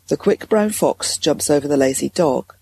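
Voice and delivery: heart voice. Shown as a demonstration. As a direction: speak from the heart, settled. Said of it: "can you hear the tonality has shifted down".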